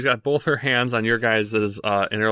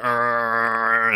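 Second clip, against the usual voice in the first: stool scrape noise; 2 semitones higher than usual. Acted. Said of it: "as the wood scrapes on the ground".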